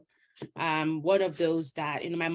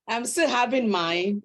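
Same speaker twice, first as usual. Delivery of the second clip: still laughing; 4 semitones higher, 4 dB louder than usual. Real, not acted. Still laughing after baby joke.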